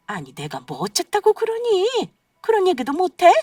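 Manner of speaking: shrill, loud, high indignant shout; indignant outburst. Acted. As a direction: fire back defensively at your son. Mother-in-law snaps back at son.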